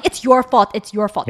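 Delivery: retold yelling. Mom recounts what her daughter kept shouting, mild mock yell. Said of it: "'cause she kept yelling".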